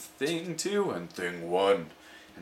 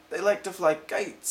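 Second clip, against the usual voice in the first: showman cat; 8 semitones higher than usual. Acted.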